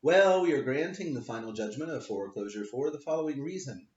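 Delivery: a stiff, halting ruling in a light put-on voice; imitating the magistrate. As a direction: read the ruling the way she stumbled through it. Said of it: "her wisdom announced her decision on the record".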